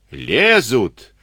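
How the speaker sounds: yelled from the walls; straining shout. Acted. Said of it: "надрывался кто-то с высоты". (надрывный крик со стены)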